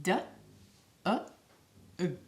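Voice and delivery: D, uh, ug said as three separate sounds; sounding out dog. Shown as a demonstration. Teacher sounding out the sounds of dog for kids. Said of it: "Those are three sounds that make up the word dog".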